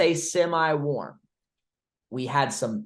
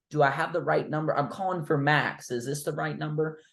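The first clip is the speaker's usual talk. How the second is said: casual checking tone; 3 semitones higher than usual. Shown as a demonstration. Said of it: "I'm like".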